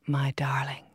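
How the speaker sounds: breathy whisper, no voice. A narrator's reading. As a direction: whisper the endearment close. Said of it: "he whispered".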